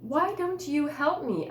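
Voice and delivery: questioning. Acted. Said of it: "I questioned them".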